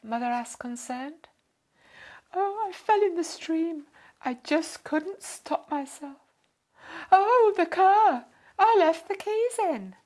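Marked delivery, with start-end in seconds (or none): 2.3-9.9 high, loud, slowing into sudden alarm; a fussy lady remembering her car in a panic; flustered lady. A narrator's reading.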